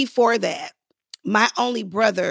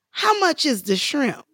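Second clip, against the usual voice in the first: higher, innocent mock-naive ask; wide-eyed casual question; 5 semitones higher than usual. Naive passenger asks the flight attendant about the menu, wide-eyed and casual. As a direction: play the green first-class passenger asking casually. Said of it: "very casually looked up at her".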